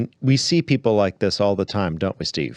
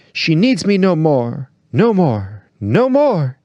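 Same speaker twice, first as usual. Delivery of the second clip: higher, louder, a mock sob climbing on the last no more; choking voice; 7 semitones higher, 5 dB louder, slower than usual. Tragedian lamenting to nobody, hammed-up choking voice. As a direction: choke up theatrically on each repeat. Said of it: "he said with a choking voice".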